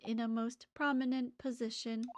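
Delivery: even mechanical voice; measured machine-like delivery; robot voice. Acted. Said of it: "I'm giving him a robot voice".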